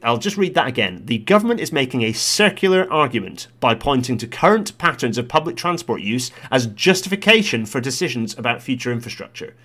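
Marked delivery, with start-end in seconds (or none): 1.1-9.6 lightly put-on formal reader, measured emphasis; Transport Select Committee voice. Vlogger rereading the committee's damning sentence for listeners, lightly voiced committee style. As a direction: reread it as a committee statement, each phrase made to count. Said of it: "Transport Select Committee voice".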